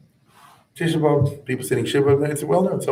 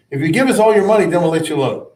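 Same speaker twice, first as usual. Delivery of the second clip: mock crusader offer; 5 semitones higher, 5 dB louder, faster than usual. Crusaders' false offer to town.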